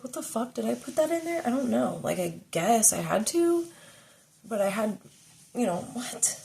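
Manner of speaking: lightly acted incredulous anger; retold outrage. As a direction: replay the shock with disbelief. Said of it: "It's like".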